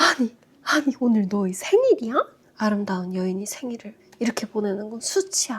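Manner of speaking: mock, furious, outraged, indignant outburst of rage. Retelling how the other person reacted on learning it was a birthday: imitating a furious outburst. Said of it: "극대노를 하면서".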